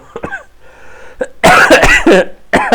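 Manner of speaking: painful hacking cough; harsh cough that hurts the side; coughing after surgery. Real, not acted. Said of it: "It hurts to cough".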